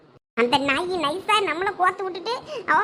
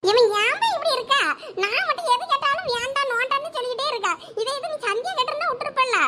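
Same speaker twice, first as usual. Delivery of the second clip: higher, laughing complaint; whiny daughter; 5 semitones higher than usual. Acted. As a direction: whine it half-laughing, like a sulky girl. Daughter complaining about being refused.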